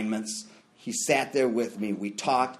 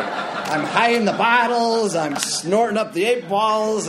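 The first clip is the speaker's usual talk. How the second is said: mock paranoid panic; 9 semitones higher, 7 dB louder, slower than usual. Acting out paranoid binge.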